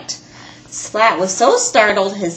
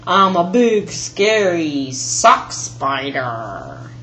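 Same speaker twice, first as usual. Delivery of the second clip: slow low spooky growl; spooky spider voice; 3 semitones lower, slower than usual. Acted. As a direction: play the scary monster slowly. Playing a scary spider.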